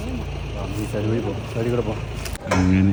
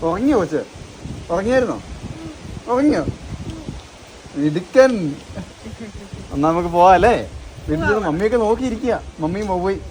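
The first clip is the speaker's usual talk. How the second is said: higher, softer questions to a little one; 4 semitones higher, 9 dB quieter than usual. Real, not acted. Parent asking child about his nap, higher and softer.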